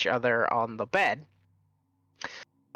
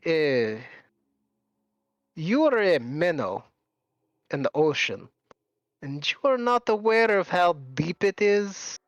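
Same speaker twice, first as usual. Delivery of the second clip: lightly voiced, puzzled villain; measured, mildly condescending confusion; confused Asmodeus; 2 semitones higher than usual. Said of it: "looks at them confused and goes".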